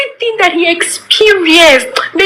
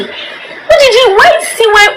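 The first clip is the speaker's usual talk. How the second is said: laughing disbelief; 6 semitones higher than usual. Real, not acted. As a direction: laugh it out, hardly believing it.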